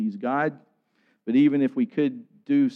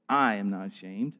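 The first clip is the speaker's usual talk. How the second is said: "I" stressed, the rest lower and softer; 3 semitones lower, 4 dB quieter than usual. Retold or imitated. Preacher quoting Paul to a fearful church, stress on "I". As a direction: lean on the word "I", then drop away. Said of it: "putting the emphasis on that word".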